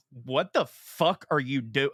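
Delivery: slow, drawn-out mock outrage; retold confrontation, stretched out slowly; aggressive challenge. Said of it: "like, that aggressive".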